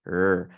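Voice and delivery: "R" as a drawn-out sounded consonant; Dutch R. Shown as a demonstration. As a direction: demonstrate the Dutch "R" sound by itself. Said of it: "they pronounce the R".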